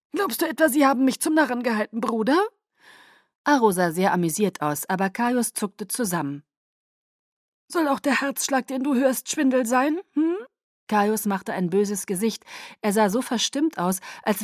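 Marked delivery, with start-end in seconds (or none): 0.1-10.4 higher, quick teasing; amused Aro. Acted. Aro teases his brother Caius, higher and amused. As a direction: needle his brother playfully.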